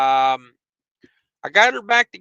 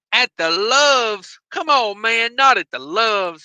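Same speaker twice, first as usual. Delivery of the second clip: mock disbelief; 5 semitones higher, slower than usual. Retelling his incredulous reply to complaint.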